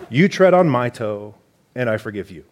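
playful mock British accent, lightly done; a hint of a posh British reading voice. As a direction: read C S Lewis in a hammed-up British accent. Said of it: "you gotta read this with a British accent".

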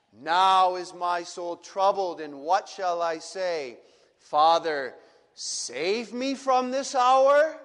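the voice of a troubled soul crying to the Father; voicing Jesus' troubled prayer. Preacher voicing Jesus, pleading with the Father.

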